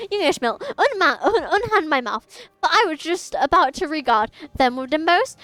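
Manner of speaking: put-on theatrical old-timey sailor. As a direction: declaim like a hammy actor greeting a hero. Grand old-style stage speech.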